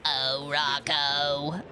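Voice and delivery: put-on New York accent, low and slow; Missus Big Head. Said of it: "put on, like, a New York accent, I can sound like Missus Big Head".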